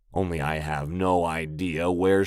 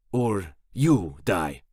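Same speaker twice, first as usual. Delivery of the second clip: menacing goon; much slower than usual. A narrator's reading. Goon threatens slowly.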